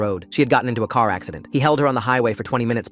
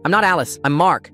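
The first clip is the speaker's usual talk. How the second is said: high, loud, a touch of sobbing; 6 semitones higher, 4 dB louder than usual. Acted. Mark sobbing to the neighbour, mildly. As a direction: cry it out, mildly tearful. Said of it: "I sobbed".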